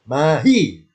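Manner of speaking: "Mahi" ending on a short hi. Shown as a demonstration. Teacher repeating the correct reading, short hi. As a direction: model "Mahi" without stretching the final vowel. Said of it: "hi-nya pendek".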